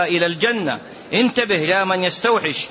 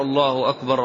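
mock crowd takbir; 4 semitones lower than usual. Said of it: "الناس كلهم يقولوا كده".

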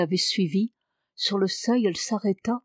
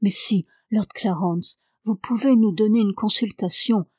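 lively. Acted. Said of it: "avec vivacité".

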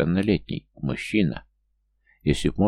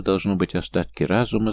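plain reading voice

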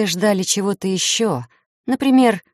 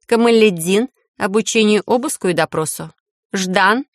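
measured official verdict; formal speech; 2 semitones higher than usual. A narrator's reading. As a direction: speak like a judge. Heroine assigns duties.

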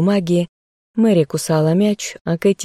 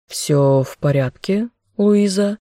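stern general; 3 semitones higher than usual. Acted. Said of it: "сказал он строго".

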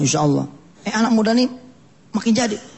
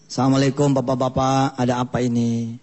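smooth pious stranger; 6 semitones lower than usual. Acted. Wise-looking devil arrives.

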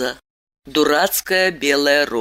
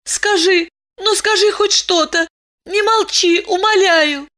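higher, begging cry; desperate pleading; 13 semitones higher than usual. Acted. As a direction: plead with him, near tears. Begging him to speak.

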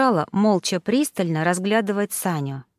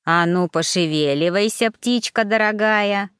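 rough servant. Acted. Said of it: "Кикки грубо толкнула".

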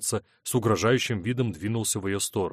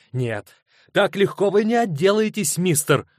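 shrill defiance; 10 semitones higher, 6 dB louder than usual. A narrator's reading. Teresa grabs his sleeve.

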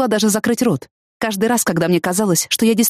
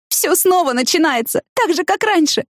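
weeping; 11 semitones higher than usual. A narrator's reading. Tina clinging to Danny's sweater, weeping. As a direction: plead through tears. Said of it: "заплакала и продолжила".

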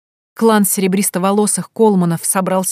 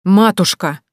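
flushed, louder cry of protest; indignant cry; 5 dB louder, slower than usual. A narrator's reading. Fiona to her mother, a sharp indignant cry. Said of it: "Фиона вспыхнула".

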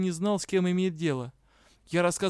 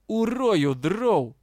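loud, higher hissing threat; hissed threat; 5 semitones higher, 5 dB louder, much slower than usual. A narrator's reading. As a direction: spit the threat out. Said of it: "зашипел кентавр". (кентавр злобно шипит)

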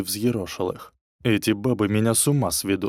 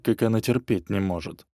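ordinary delivery, nothing marked

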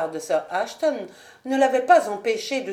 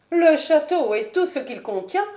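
higher, stiff polite noblewoman; higher proud lady; Lady Ashton; 7 semitones higher, 3 dB louder than usual. Acted. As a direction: coolly justify herself to the marquis.

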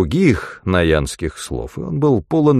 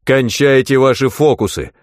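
raised-pitch angry order; sharp command; 5 semitones higher, 3 dB louder than usual. A narrator's reading. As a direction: order them to stop, forcefully. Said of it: "скомандовал Джексон". (резкая команда повышенным голосом)

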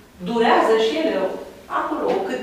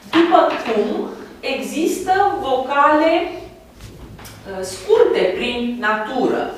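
slow, deliberate; 2 semitones higher, much slower than usual. Shown as a demonstration. Teacher spelling out definition slowly.

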